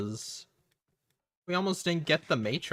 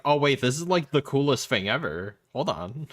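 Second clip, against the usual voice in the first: louder, mock-excited exec voice; hammed-up sudden excitement; 3 semitones higher, 5 dB louder than usual. Retold excited exec reaction.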